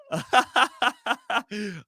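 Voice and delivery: short real laugh; a genuine burst of laughter. Real, not acted. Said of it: "I'm laughing".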